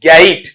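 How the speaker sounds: गेट with a drawn-out glide, "gay-it"; corrected pronunciation. Shown as a demonstration. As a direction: stretch गेट into "ga-it". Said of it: "ऐसा sound है".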